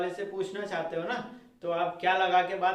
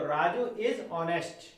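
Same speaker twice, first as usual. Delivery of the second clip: slow dictation; much slower than usual. Shown as a demonstration. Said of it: "model sentence dictated slowly".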